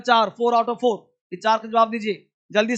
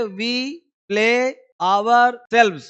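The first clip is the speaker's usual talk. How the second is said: slow model sentence; much slower than usual. Shown as a demonstration. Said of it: "teacher models the English sentence".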